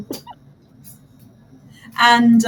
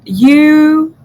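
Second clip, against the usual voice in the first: high, loud "You"; grand flourish; 7 semitones higher, 7 dB louder than usual. Acted. Diviner flattering the player, grand and loud. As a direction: announce it with a flourish.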